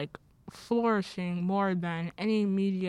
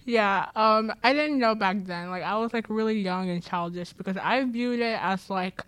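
talking with expanders in; muffled by dental expanders; muffled speech; 2 semitones higher than usual. Real, not acted. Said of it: "I apologize if I sound kinda muffled".

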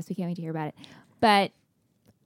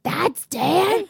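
surprised; 8 semitones higher than usual. Retold or imitated. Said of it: "He's like".

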